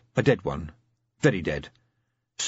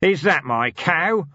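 slow, loud, higher growl; growled demand; 6 semitones higher, 4 dB louder, slower than usual. Acted. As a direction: growl it at the guards. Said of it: "and growled".

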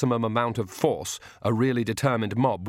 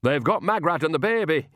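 sharp, raised snap; higher, sharper rebuke; snapped; 6 semitones higher than usual. A narrator's reading. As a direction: cut him off impatiently. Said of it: "snapped Nanny".

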